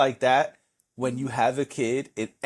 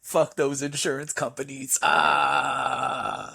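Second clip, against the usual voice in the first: mock wail; much slower than usual. Weeping viewer acted out.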